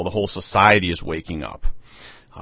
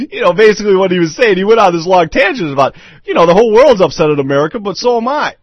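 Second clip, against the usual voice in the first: laughing while talking; 10 semitones higher, 6 dB louder than usual. Real, not acted. Chuckling through his retelling.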